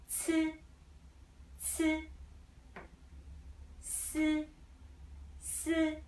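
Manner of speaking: every syllable from "Xi" to "Wu" held high and level; first tone. Shown as a demonstration. Teacher drills letters for practice, flat high first tone. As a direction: chant each syllable on one flat high pitch. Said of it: "first tone is always flat".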